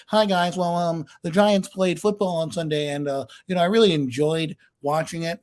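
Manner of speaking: toned-down, polite sports recap; mild and unintense. Acted. Showing listeners a tame football recap, mild and unintense. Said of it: "you like me coming in intense".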